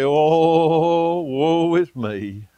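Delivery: hammed-up woe is me moan; mock self-pity. A churchgoer pitying himself, mock self-pity. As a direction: sigh it out like a sorry martyr. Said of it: "we can sit around and say".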